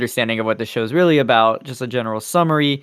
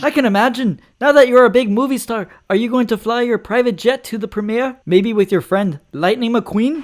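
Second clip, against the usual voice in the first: talk show host; 10 semitones higher than usual. Pretend. Host asks questions.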